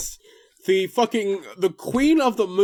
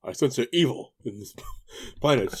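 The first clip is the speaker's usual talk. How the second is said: pompous wizard voice; 8 semitones lower, 5 dB quieter than usual. Acted. Mocking Zordon's grammar.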